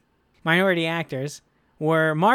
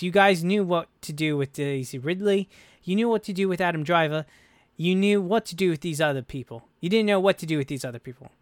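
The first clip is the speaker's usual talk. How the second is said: a hint of a bad John Boyega accent; terrible John Boyega accent; 3 semitones higher than usual. Host reading out John Boyega's complaint, lightly attempted Boyega accent. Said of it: "That's a terrible accent for John Boyega".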